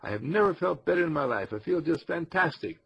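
bright, confident declaration; upbeat affirmation. Shown as a demonstration. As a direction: say it like you mean every word.

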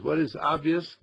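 eager, breathless bragging, lightly done; mock pride. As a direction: voice of pride, rushing to tell everybody. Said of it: "that old pride that says".

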